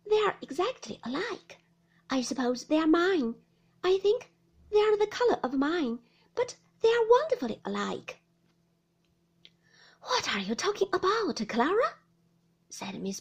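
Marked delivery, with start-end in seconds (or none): 0.1-8.2 high-pitched, gently marvelling mother; high, lilting fond wonder; gentle. A narrator's reading. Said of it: "said my mother gently". 10.0-12.0 high, loud, sharp inquiry; stern challenge in a raised voice; harsh. A narrator's reading. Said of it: "the harsh tone of this inquiry".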